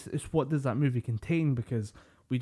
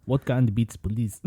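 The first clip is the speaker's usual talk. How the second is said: mock Russian accent, falling away. Closing the Russian food bit, mock Russian accent. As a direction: order as a hammed-up Russian. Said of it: "was a Russian accent".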